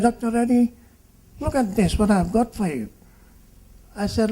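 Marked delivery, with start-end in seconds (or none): 0.0-2.9 put-on high, eager little girl's voice; a bouncing kid showing off a present; girl thrilled to show her doctor a gift; excited child.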